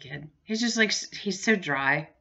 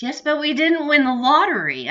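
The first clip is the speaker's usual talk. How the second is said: imitating husband; 8 semitones higher, 7 dB louder than usual. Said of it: "And he goes".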